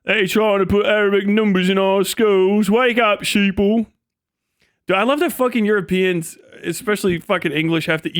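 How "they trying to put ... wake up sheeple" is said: mock conspiracy rant. Mocking a conspiracy ranter.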